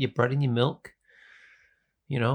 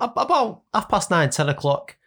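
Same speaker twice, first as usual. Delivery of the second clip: mock high answer; 8 semitones higher, 4 dB louder, slower than usual. Imitating himself to girlfriend.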